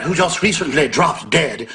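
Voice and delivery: slow, relishing mock British lilt; lightly mocking the host's enjoyment; mimicking gloating. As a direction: savour each word like you enjoy it. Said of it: "She says that with a little bit of enjoyment".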